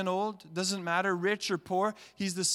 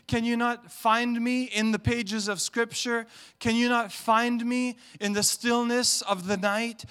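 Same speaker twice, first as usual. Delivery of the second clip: higher, louder pleading questions; voice of God pleading; 6 semitones higher, 6 dB louder than usual. Acted. God asking people why they cannot see him, pleading. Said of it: "he's saying".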